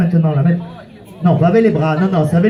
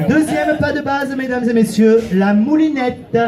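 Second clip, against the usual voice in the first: showman announcement; 3 semitones higher than usual. Acted. Host announces next dance step.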